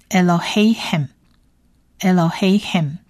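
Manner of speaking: "Elohim" said slowly and carefully; Hebrew word demo. Shown as a demonstration. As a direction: stretch out "Elohim" for learners. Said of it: "第二个字是Elohim". (慢读示范Elohim)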